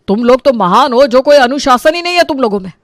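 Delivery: mildly angry, rising sarcastic complaint; angry sarcasm. Acted. Father scolding his family over discipline, angry sarcasm. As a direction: scold them with exasperated sarcasm. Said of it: "ये बोलकर प्रेमनाथ गुस्से में".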